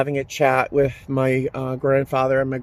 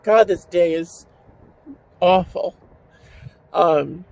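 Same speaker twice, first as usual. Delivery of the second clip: tearful, on the verge; 4 semitones higher than usual. Real, not acted. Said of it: "cry as hard as I had to".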